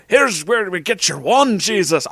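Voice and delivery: loud, high, slow faked accent; hammed-up Hagrid accent; bad Hagrid accent. A narrator's reading. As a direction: boom it in a badly faked accent. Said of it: "I really am not good at that accent".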